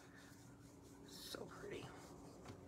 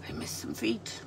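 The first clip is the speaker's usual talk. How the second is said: whispered to herself; 9 semitones lower than usual. Real, not acted. Repeats it under her breath.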